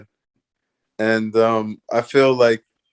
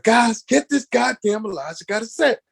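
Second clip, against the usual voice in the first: impatient co-star; 12 semitones higher than usual. Retold or imitated. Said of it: "Steven's like".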